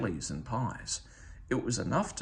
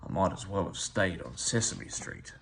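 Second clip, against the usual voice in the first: grumbling; 5 semitones lower than usual. Acted.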